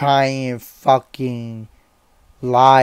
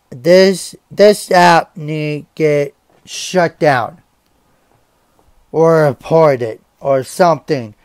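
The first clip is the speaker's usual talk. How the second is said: angry outburst; 3 semitones higher, 5 dB louder than usual. Real, not acted. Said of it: "I'm so fucking pissed right now".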